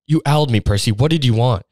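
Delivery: firm, demanding prefect voice; head girl voice. Acted. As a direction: bark it like a strict head girl. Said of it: "her head girl voice".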